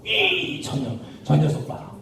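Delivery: low, muted scoffing; mocking jeer. Onlookers sneering at Jesus on the cross, mild mocking. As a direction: jeer with contempt, lightly acted. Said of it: "막 욕하고 조롱하고 무시했어요".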